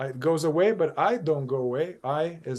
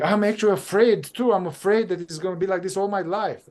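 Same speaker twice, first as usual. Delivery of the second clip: higher, louder, anxious confession; imitating a fearful client; 5 semitones higher, 3 dB louder than usual. Client admits fear to her therapist, anxious and rushed. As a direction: blurt out the fear in a rush.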